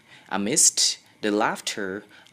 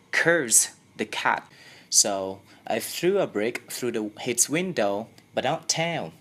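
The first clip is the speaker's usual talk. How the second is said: put-on two boys scheming, voices pitched up a touch; boys whispering a plan; 3 semitones higher than usual. Boy to his friend about meowing, lightly boyish. Boys plotting outside school.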